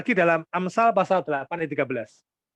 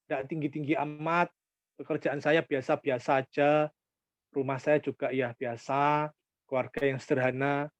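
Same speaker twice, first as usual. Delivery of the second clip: humble congregant, lightly voiced. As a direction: lightly play someone putting themselves down. Voices a humble, self-deprecating congregant.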